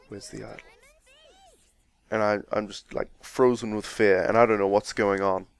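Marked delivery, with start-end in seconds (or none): 0.1-0.7 soft, hushed threat; a menacing near-whisper; really quietly. Retold or imitated. Captor with spear at my throat asks quietly. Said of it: "really quietly".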